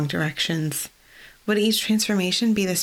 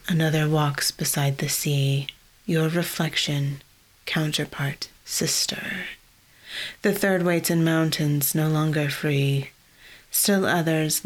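a lightly lowered, slow prophetic intonation; deep guttural voice. Acted. Ophelia in trance reciting a prophecy, lightly deepened voice. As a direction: intone it like a trance-bound oracle. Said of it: "In a deep, guttural voice".

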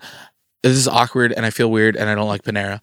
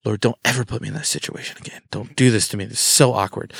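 freaked-out prayer; faster than usual. Retold or imitated. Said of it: "I'm freaking out".

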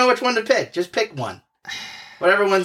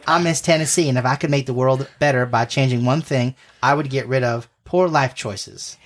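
put-on light Southern pageant-queen accent; a sweet Southern beauty queen, lightly put on. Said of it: "how to do a southern accent".

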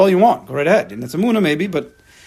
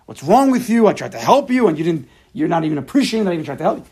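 a mock indignant comeback at the friend; angry retort. Helper angry at ungrateful friend, indignant snap. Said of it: "you can get angry at him".

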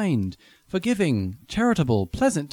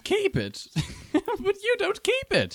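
higher, slower words through a laugh; 13 semitones higher, slower than usual. Acted. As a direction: tease him while laughing. Nephew laughs at Scrooge.

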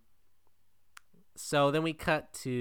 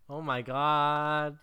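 drawn-out, slow nerdy moan; a nerd groaning at the pun; 2 semitones higher, much slower than usual. Pretend. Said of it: "He says in a fucking nerd voice".

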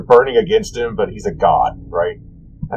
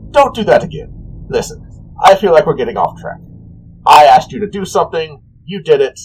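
annoyed trickster god; 3 semitones higher than usual. Acted. Voices the annoyed god Cyric.

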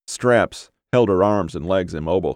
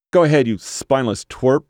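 higher, strained taunt; high and tight; 6 semitones higher, 3 dB louder than usual. A narrator's reading. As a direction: dare him with a high, tight voice. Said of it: "Her voice sounded high and tight".

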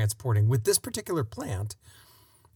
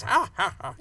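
higher, punched "ha ha" of a villain; mock villain laugh; 7 semitones higher than usual. Holodeck villain with his ray gun, hammed-up villain laugh. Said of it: "you know, that kind of guy".

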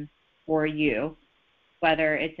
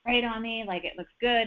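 lightly acted, higher-pitched delight; shopping high; 4 semitones higher than usual. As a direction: play a shopper pleased with the find. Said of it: "you're in that high".

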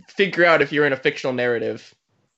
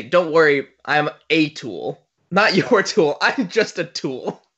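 mock earnest; slower than usual. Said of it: "trying to say".

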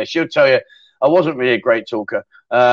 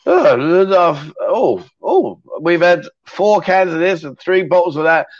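mock drunk slur; 3 semitones higher, slower than usual. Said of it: "he was slurring his words".

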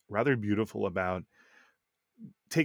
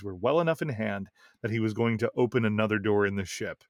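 reading aloud. Acted. Reads a listener's game story.

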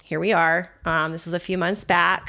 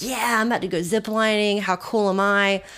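cocky, pumped-up boast; ballsy. Retold or imitated. Zip liner hyping herself up before the first tree, ballsy. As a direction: brag like a brave adventurer, lightly acted. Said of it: "I'm feeling ballsy".

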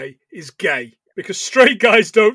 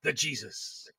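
Jesus impression; 4 semitones lower than usual. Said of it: "he was more like".

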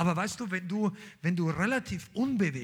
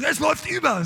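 excited cry; 9 semitones higher, 7 dB louder than usual. Acted. Voicing a believer overflowing.

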